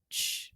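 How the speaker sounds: soft ch- ch- of water lapping; lapping water sound. Shown as a demonstration. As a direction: imitate water lapping on a shore. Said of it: "What does ch mean?".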